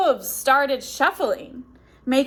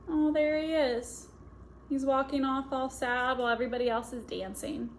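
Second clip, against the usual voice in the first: quiet aside; 8 dB quieter, faster than usual. Real, not acted. Aside to child while reading.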